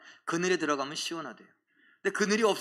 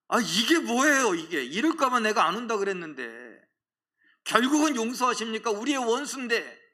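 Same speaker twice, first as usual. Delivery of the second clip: higher-pitched mock complaint; acted protest; 5 semitones higher than usual. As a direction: protest to God like an aggrieved prophet. Preacher voices Jonah protesting to God.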